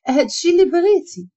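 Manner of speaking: jealous parting shot; angry retort. A narrator's reading. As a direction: throw it at her on the way out. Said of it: "وخرجات من الكوزينة معصبة".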